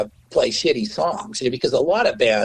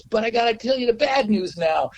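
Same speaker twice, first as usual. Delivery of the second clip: record guy; 9 semitones higher than usual. Retold or imitated. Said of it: "he goes".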